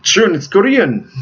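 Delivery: mock scoffing reply, pitch jumping up. Korean master correcting his pupil's remark, scoffing. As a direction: play an indignant scoff at the mistake. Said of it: "like, scoffing at".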